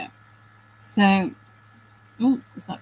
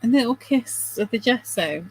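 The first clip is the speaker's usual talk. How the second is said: mock cooking-show phrase. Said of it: "I was just about to say".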